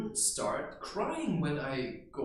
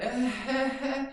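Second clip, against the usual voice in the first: higher, louder alarmed disbelief; alarmed onlookers; 8 semitones higher, 5 dB louder than usual. Retold or imitated. Adults watching him, louder and higher in alarm. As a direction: sound like a scandalized bystander. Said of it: "these adults would stand there and think".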